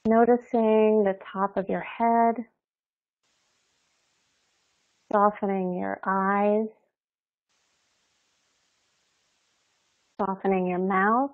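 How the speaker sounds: calm, unhurried meditation guide with long pauses; guided meditation. Real, not acted. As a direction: ease them gently into their bodies, leaving space between phrases.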